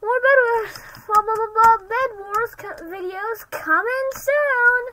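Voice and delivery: loud, high channel-plug shout, slowing at the end; hyped promo. Acted. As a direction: sell it like a hype announcer.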